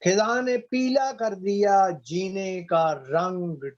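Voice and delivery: measured Urdu couplet reading; ghazal recitation. Acted. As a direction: recite the verse with drawn words and pauses. (शायरी पढ़ने का अंदाज़)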